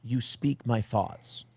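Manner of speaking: slow, soft, touched delivery; tender quote. Retold or imitated. Quoting the tearful woman, slow and soft. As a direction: say it slowly, tenderly. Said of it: "She would go".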